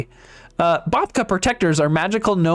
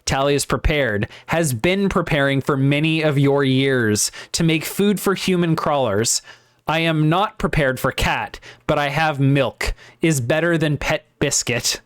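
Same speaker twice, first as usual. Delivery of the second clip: put-on light Slavic accent, gruff innkeeper; hint of a Slavic accent; 2 semitones lower than usual. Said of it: "in a Slavic accent".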